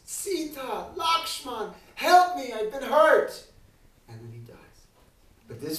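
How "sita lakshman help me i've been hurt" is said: high, loud desperate cry; screaming for help. Acted. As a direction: scream it out as if dying. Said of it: "And he screams".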